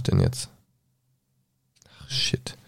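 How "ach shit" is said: soft unvoiced swear under the breath; muttered curse. Real, not acted. Reader loses the page, swears under breath. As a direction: grumble to yourself. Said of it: "reader curses losing page".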